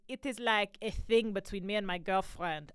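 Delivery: lightly put-on Central European accent; imitated European accent; Swiss Dutch accent. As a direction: mimic a Swiss-Dutch man explaining. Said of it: "I'm doing a Swiss Dutch accent thing".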